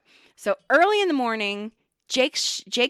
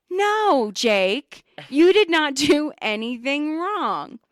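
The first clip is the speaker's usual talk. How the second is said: higher, louder, slow and emphatic reassurance; reassuring; 3 semitones higher, 3 dB louder, much slower than usual. Retold or imitated. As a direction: insist kindly, drawing each word out. Reassuring hurt coworker.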